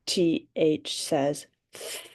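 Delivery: th breathed out without voice; just air through the th; unvoiced th. Shown as a demonstration. Teacher showing the kids a voiceless th. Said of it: "Now we're gonna do it without".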